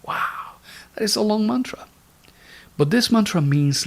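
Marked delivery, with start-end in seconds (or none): 0.0-0.5 whispered wow. Real, not acted. Remark after the long mantra.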